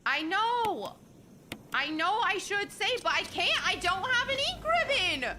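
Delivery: high, loud whine to chat; whiny protest. Real, not acted. Gamer whining to chat about saving, high loud whine. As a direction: plead your case, whining.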